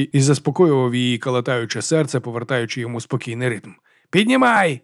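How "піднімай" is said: high, ringing rowing call; rhythmic call. Acted. Erik calling the oar stroke from the tiller, high ringing call. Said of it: "гукнув Ерік".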